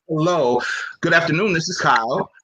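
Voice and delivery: measured, formal corporate phone greeting; lightly put-on corporate voice. Professional answering the phone, lightly voiced corporate greeting. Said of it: "put on my corporate voice".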